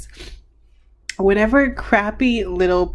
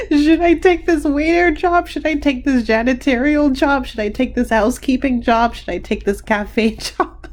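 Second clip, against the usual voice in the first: mocking questions; 4 semitones higher than usual. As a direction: mimic a dithering job seeker, amused. Mocks clients' questions while cracking up.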